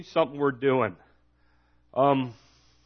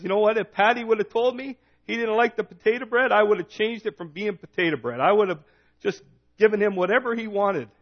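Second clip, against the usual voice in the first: higher-pitched acted wife, lightly exasperated; mock protest; 6 semitones higher than usual. Irish wife talking about her husband's lunch, mock exasperated.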